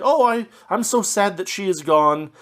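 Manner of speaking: mock the sappy pining of a lovestruck hero; a half-joking parody of melodramatic grief; mock melodramatic longing. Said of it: "It's a little bit melodramatic".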